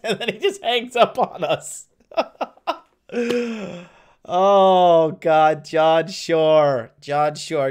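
cracking up while finishing the story; high, laughing delivery settling into an amused sigh. Real, not acted. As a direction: tell it through real laughter. Cracking up over the retold story.

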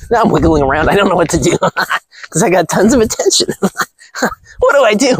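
a hint of a high giddy girl; giggly airhead act; mock ditzy girl. Mocking a flustered girl, giggly.

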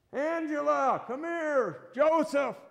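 high, loud parental yell; acted shout for the kids. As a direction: call lost children from far away. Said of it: "The mom and dad are yelling".

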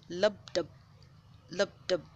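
thump it out steady like a heart pumping; heartbeat imitation. Shown as a demonstration. Telling bookworms how the heart pumps, gentle heartbeat imitation. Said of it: "That's the heart while it pumps blood".

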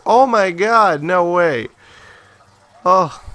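high, loud shriek of disbelief; shrieking jackpot winner. Real, not acted. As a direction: scream it like winning big. Thrilled by a game surprise.

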